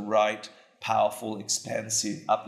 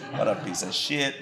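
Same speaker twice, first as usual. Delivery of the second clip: laughing mock insult. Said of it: "I'm just amplifying".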